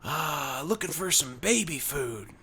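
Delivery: lightly voiced redneck customer; a hint of wrestler in a shopping request; Hulk Hogan. Redneck asking a worker for baby food, light Hogan-style voice. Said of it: "sounds like his voice is like Hulk Hogan".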